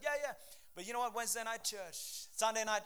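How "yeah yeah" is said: higher-pitched excited fan imitation; lightly hammed-up crowd enthusiasm; mock fan cheering. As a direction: play an eager supporter. Imitates supporters going into game.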